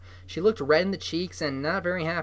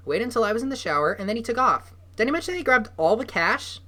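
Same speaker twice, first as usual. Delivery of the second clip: angry rant; 8 semitones higher, 5 dB louder than usual. A narrator's reading. Shelley rants about boyfriend.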